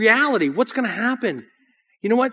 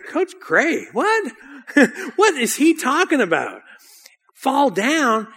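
higher-pitched puzzled questioning; baffled disbelief; 4 semitones higher, slower than usual. Retold or imitated. Runner questions his coach's odd order, baffled. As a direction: react as a confused teenage runner.

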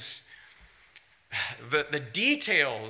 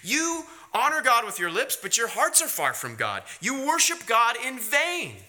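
stern rebuke; 5 semitones higher than usual. Retold or imitated. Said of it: "He says, Here's, here's the bottom line".

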